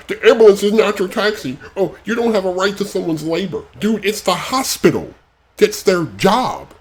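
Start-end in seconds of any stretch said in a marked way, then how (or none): 0.1-3.2 mocking repeat.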